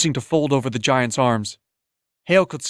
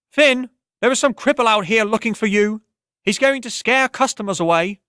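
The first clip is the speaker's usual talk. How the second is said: high, loud and ringing like a bell; a voice that floats above the tavern noise; clear ringing woman's voice; 9 semitones higher, 3 dB louder than usual. Acted. Tavern woman calls out over the crowd, high and ringing. Woman pounds on door calling.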